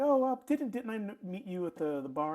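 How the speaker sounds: lightly voiced surprised question, high at first; mild surprise. Piercer recognises a customer from the bar, mildly surprised. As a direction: start high, easing down as recognition lands.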